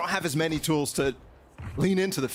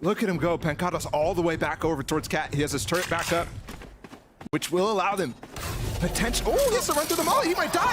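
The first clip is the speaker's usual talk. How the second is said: esports caster. Real, not acted. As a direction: call the clutch escape breathlessly. Live play-by-play.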